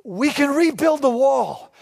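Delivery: imitating a leader stirring hope; inspiring rally. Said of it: "he's inspiring them".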